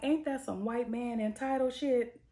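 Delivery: high, loud, outraged disbelief; indignant outrage. Real, not acted. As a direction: call out the entitlement, fired up. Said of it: "And I'm like".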